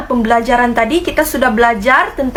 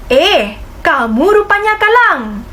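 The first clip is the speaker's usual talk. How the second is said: surprised exclamation; 5 semitones higher than usual. Shown as a demonstration. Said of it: "kenal pasti apa agaknya ayat seruan".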